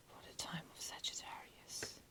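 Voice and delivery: hushed, barely voiced whisper; very soft tarot-reader whisper. Real, not acted. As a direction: drop softly into a real whisper. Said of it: "I don't know why I'm whispering".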